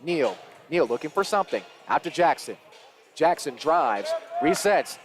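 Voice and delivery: lively basketball commentary; live play-by-play. Real, not acted. Commentator following a drive to a foul, live play-by-play. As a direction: call the action as it unfolds.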